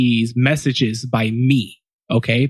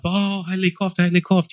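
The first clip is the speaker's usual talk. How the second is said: excited greeting; 7 semitones higher than usual. Retold or imitated. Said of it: "Everyone gets up".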